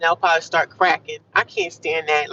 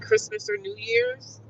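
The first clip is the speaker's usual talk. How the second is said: Christmas or New Year's floated up high and slow; high sing-song question; 6 dB quieter, slower than usual. Real, not acted. Asking viewers about holidays, high and slow. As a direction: lilt it way up like a tease.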